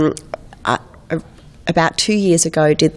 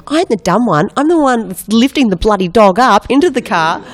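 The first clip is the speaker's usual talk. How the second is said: higher-pitched protesting retort; mock exasperation; 5 semitones higher, 4 dB louder than usual. Dog owner protesting to her friends, mock exasperated.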